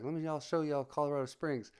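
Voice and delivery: lightly imitated high-voiced buddy; high Tyson-like voice. Imitating buddy inviting friends into his truck, high voice. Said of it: "he had a high voice like Mike Tyson".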